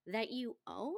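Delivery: lightly mimicked cool comeback; a cool, unbothered question; understated deadpan echo; dry retort. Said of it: "she doesn't say it like shrill or rude".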